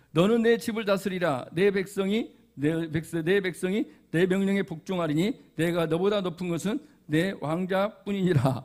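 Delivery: soft, measured Bible reading; scripture reading. Acted. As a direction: read the verse aloud quietly and deliberately. Reads scripture aloud. (조용히 성경 봉독)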